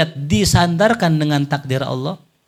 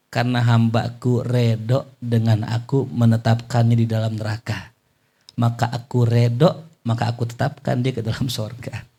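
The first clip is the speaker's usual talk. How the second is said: low, measured voice of authority; divine reply; 4 semitones lower than usual. Acted. Allah answering the angel, low and measured. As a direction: answer calmly from above, lower.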